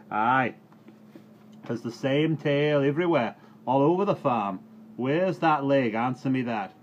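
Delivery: loud, high grumbling rant; ranting farmer. Acted. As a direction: grind through the list of woes. Farmer Reuben ranting at cowman.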